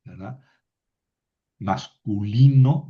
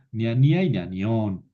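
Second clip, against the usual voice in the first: "ñanía y ñanión" with the genitive stressed on final ÓN; stress on last syllable. Shown as a demonstration. Teacher shows students the genitive plural accent, last-syllable stress in "ñanión". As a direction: land firmly on the ÓN of "ñanión". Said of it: "lleva el acento en la última sílaba".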